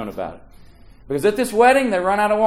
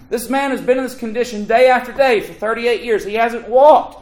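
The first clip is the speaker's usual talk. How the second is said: preaching climax; 7 semitones higher, 5 dB louder than usual. Real, not acted.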